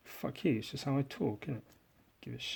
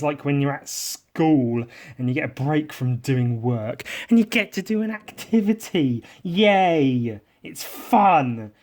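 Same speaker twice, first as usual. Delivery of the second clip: mock cheerful teacher; 3 semitones higher, 5 dB louder than usual. Parodying school activity enthusiasm.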